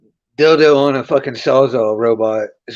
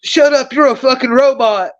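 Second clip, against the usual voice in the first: higher mock angry outburst; imitating a friend snapping insults; retold angry yell; 9 semitones higher than usual. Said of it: "and he's like".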